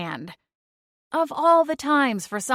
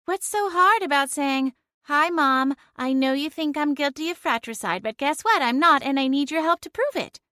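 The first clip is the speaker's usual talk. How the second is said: higher, sing-song sarcastic jab; mock his speech with a sneer; snarky mockery; 5 semitones higher than usual. Celine mocks Clint's phone script.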